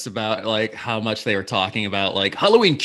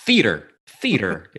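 Midwestern theater; 4 dB louder than usual. Shown as a demonstration. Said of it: "my Midwestern coming out".

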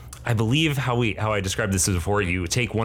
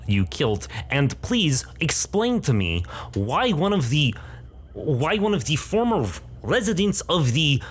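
higher, demanding in a lightly Russian voice; stern old woman; 5 semitones higher than usual. Acted. Gray-haired woman demanding answers from Amar, stern high voice. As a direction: interrogate him sternly. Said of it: "gray-haired woman speaks".

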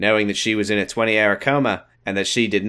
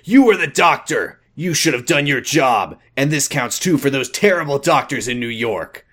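angry father; 4 semitones higher than usual. Acted. Father blames the doctor, angry. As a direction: blame him hard.

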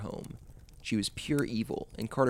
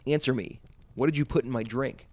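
frantic demand; 3 semitones higher, 5 dB louder than usual. Acted. Frantic babysitter demanding answer.

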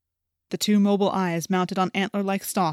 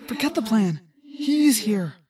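grim and heavy, the threat has arrived; ominous warning; 2 semitones higher, slower than usual. A narrator's reading. Tobias telling his friends the enemy arrived, grim warning. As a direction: let the weight of who is here sink in. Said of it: "from the way I had said it".

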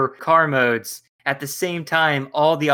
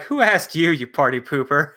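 lightly voiced tough guy retort; Brawn impression. Podcaster mimics Brawn snapping back at Huffer, mildly brash. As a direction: toss it off like a brash bruiser. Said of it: "That was a good impression".

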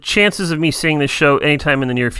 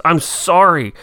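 sorry; 4 semitones higher than usual. Retold or imitated. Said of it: "she's like, just".

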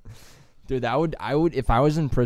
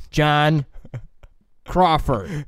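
prisoner saying his own name; 4 semitones higher, 4 dB louder, much slower than usual. Retold or imitated. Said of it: "have him say his own name".

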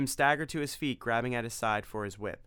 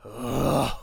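exclaimed ugh; 6 dB louder than usual. Acted. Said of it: "he exclaimed".

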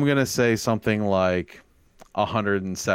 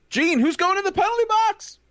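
announcer voice; 4 dB louder than usual. Acted. Announcing the segment.

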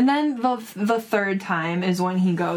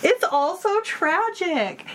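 teary laugh; 9 semitones higher than usual. Real, not acted. Emotional about tragic chapter.

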